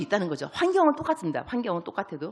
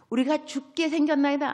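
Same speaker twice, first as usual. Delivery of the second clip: mock panicky cry, pitched up; fussy panic; 6 semitones higher than usual. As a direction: ham up the disciples' fuss over 생겼나이다. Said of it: "오두방정".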